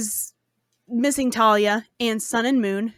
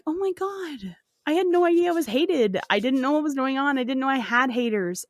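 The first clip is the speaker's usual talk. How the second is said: retold upset; 2 semitones higher than usual. Talia answering the hateful queen, mock upset. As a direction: protest as if mildly wounded. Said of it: "she gets upset and she's trying to cry".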